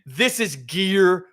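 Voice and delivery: Luffy declaring his peak, slow and rising; dramatic hero line. Acted. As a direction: build it like a power-up reveal. Voicing Luffy's transformation line.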